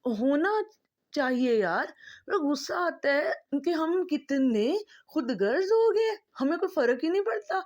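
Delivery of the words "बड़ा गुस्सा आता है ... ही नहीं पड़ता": crying out in real frustration, faster at the end; tearful anger. Real, not acted. Vlogger pleading with viewers, tearful and upset. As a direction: voice breaking with tears, rising upset. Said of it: "emotional हो गई इस बात पे".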